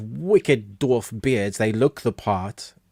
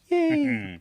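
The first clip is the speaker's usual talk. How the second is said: squealed yay. Real, not acted. Cheering a guest's arrival.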